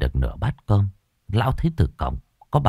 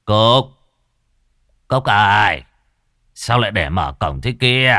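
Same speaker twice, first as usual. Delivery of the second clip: calling the maid by name, louder; yelling at the maid; 2 semitones higher, 4 dB louder than usual. Acted. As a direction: snap out the name, then scold. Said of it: "thì quát". (quát gọi người hầu, to tiếng)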